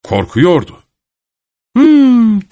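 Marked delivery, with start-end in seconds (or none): 1.8-2.5 high, loud bird chirp of a hum. A narrator's reading. Kuş dedemin ardından cıvıldar gibi, çok yüksek ve ince. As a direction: squeak it out like a startled bird. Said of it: "diye cıvıldadı kuş".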